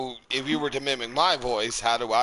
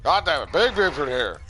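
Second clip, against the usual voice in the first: Big Buford voice; 3 semitones higher, 4 dB louder than usual. Acted. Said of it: "doing the voice of Big Buford".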